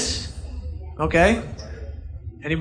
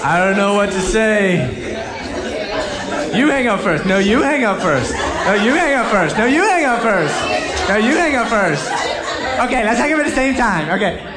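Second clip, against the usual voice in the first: giggly late night call; 2 semitones higher than usual. Retold or imitated. Acting teen phone call.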